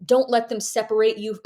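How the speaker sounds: frantic. Retold or imitated. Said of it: "the ramblings of a wild woman".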